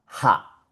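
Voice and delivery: "ja" as German ha, H audible; sounded H. Shown as a demonstration. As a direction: breathe the H into "ja", like ha. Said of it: "La H con la A".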